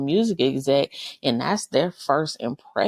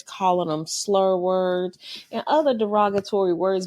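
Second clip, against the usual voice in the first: whisper; 3 semitones higher than usual. Real, not acted. Podcast host whispering about kids using slurs. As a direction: drop to a whisper on the touchy words. Lowers voice for taboo words.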